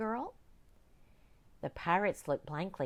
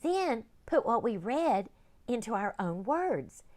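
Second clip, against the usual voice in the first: put-on young girl; 5 semitones higher, 4 dB louder than usual. Girl voiced.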